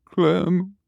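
high strangled gurgle; gurgling. Acted. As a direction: choke out the name through liquid. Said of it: "he gurgled".

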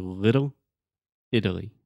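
"little Italy" word by word with D-like T's; flap T model. Shown as a demonstration. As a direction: model "little", then "Italy", flapping each T. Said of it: "what we call a flap T".

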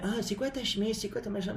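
high, soft mock-curious voice; nitpicking commenter. Host mimicking viewers quizzing him about his shirt, high mock curiosity. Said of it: "est-ce que les gens aiment".

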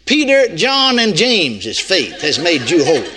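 lofty read ending with a laugh; mock misreading of scripture. Preacher piling up apostles in jest, lofty then laughing. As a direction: build the names up, then laugh through the end. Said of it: "No, that wouldn't be enough".

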